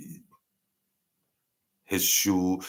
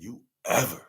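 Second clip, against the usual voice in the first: menacing threat; 4 semitones lower, 7 dB quieter than usual. Retold or imitated. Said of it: "He said".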